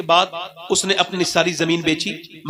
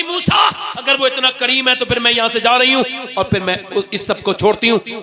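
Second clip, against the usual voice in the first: resolute declaration; 4 semitones higher than usual. Acted. Woman declares resolve to Moses.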